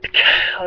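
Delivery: voiceless, explosive "ka-cow"; imitated gunshot. Retelling the shot, imitated gunshot. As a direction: mimic a rifle crack with the breath. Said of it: "He said".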